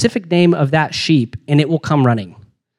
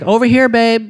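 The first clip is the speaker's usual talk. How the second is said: lightly voiced call of "Over here, babe"; higher mock call to a husband; imitating wife's call; 6 semitones higher than usual. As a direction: call out like a wife in the store. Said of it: "she literally is like".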